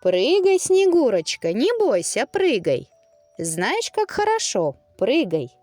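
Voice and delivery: high, urging cries; coaxing girls. Acted. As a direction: egg her on to jump. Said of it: "стали уговаривать".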